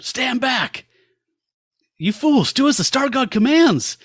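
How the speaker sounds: comic reader voicing a god-powered hero; commanding shout. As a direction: bark it like a god silencing fools. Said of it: "And then he punches Gorjun".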